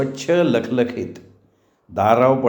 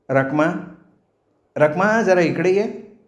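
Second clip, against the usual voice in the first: Rakhma called with a rising, drawn-out call, higher; 6 semitones higher than usual. Acted. Mistress calling the maid Rakhma from inside, drawn-out call. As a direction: call Rakhma across the house, slow and lifted.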